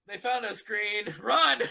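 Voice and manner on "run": shouted warning. Acted. Warning the others to flee.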